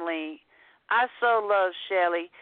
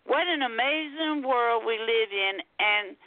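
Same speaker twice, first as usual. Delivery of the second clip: measured poetry reading, phrase by phrase; lilting spoken-word storytelling; poem recitation. Acted. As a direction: recite it with deliberate pauses round each quote. Recites her poem about her cat.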